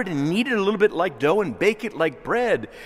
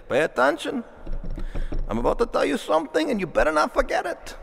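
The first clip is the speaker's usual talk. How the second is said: higher, insistent, almost scolding; urgent warning; 10 semitones higher, faster than usual. Retold or imitated. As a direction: make them sit up and listen. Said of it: "that's his Jewish way of saying".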